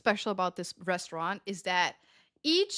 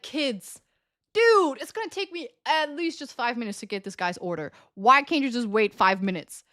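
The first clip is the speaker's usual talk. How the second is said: higher, exasperated mock telling-off; pissed off; 5 semitones higher than usual. Waitress retelling her wish to scold waiting tables, exasperated. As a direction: scold impatient diners with mild exasperation. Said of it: "It pissed me off".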